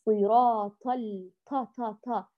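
صراط ال slow, with a breathy ط that fades to تا; صراط with the ط breathed out weakly; whispered weak ṭā. Shown as a demonstration. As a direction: demo the whispered, weakened ط. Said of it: "والبعض يهمسها".

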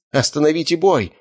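sudden high yell to stop the fight; furious yell from a cheated dog owner. Acted. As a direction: bellow at the judges to halt it. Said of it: "заорал хозяин разрушителя".

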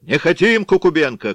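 loud, high rejecting shout; angry crowd yell. A narrator's reading. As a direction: yell the name down. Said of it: "кричала другая".

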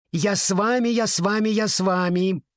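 put-on high, eager child voice; excited little girl. A narrator's reading. Little sister begging to come.

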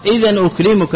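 أكرمك said "ukrimu-ka", with a u after the m; nominative-style u ending. Shown as a demonstration. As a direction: sound the u in أكرمك. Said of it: "بالرفع". (أكرمُك بالرفع)

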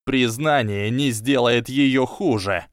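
slow, shaking with dread; tragic heroine sorrow. Acted. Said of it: "дрожащим голосом отозвался Драко". (дрожащим голосом)

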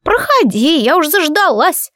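put-on high, slow old granny voice; elderly woman inviting the neighbour in; creaky old woman. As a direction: call her in, old and impatient. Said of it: "проскрипела старушка своим громким голосом".

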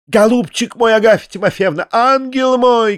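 high, fussing wail of endearments; alarmed crying out. A narrator's reading. Анфиса Петровна fussing over the fainting lady, high wailing cry. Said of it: "кричала Анфиса Петровна".

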